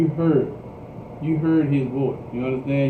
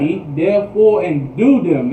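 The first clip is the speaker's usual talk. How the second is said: "Keep therefore and do them" slow, higher and louder; emphatic repeat; 4 semitones higher, 8 dB louder, slower than usual. Retold or imitated. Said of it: "He put an emphasis on this".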